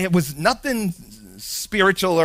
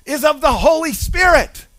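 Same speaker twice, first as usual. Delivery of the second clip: proclaiming angel; 4 semitones higher than usual. Acted. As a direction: call it out like a herald. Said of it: "an angel of the Lord appeared".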